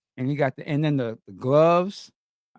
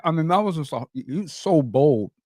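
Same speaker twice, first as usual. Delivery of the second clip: talking around ice cubes; words garbled by ice in mouth; 4 semitones higher than usual. Real, not acted. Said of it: "I got ice in my mouth".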